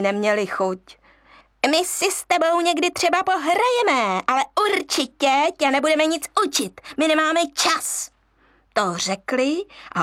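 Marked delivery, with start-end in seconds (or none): 1.7-8.1 dismissive monkeys. Acted. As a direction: brush him off quickly. Monkeys brush him off.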